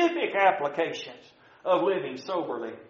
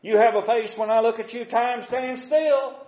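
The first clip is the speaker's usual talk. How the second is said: sweet-talking; 6 semitones higher than usual. Acted. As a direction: sweet-talk your honey, pitch raised. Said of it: "That sounds mighty pretty".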